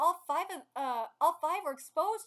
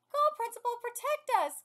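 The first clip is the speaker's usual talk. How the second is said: high, loud pleading cheer; raised, eager cheering voice; crowd cheering; 8 semitones higher, 6 dB louder than usual. Acted. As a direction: act a fan rooting for a protector. Acts crowd cheering the principal.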